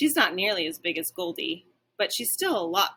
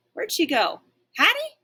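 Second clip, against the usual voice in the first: higher, louder barking call; 11 semitones higher, 6 dB louder than usual. A narrator's reading. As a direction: call out for her anxiously. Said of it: "I bark".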